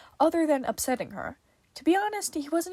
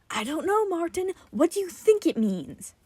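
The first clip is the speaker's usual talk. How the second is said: sharp, raised demanding voice; 7 semitones higher, 3 dB louder than usual. Acted. Tim snapping at Martin, demanding. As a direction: push back hard, a little louder. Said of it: "Tim demanded".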